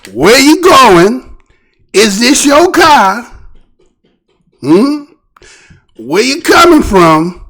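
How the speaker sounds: slow, drawn-out cop questions; slow officer questioning. Retold or imitated. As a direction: question him slowly like a cop.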